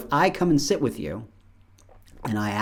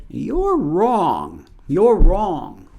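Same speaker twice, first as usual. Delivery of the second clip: mock accusation; 6 semitones higher, 6 dB louder, much slower than usual. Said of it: "Never say".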